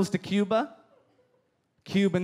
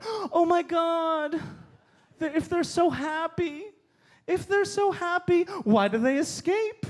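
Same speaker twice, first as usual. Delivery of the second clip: mock outrage; 6 semitones higher, slower than usual. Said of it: "I want to respond with".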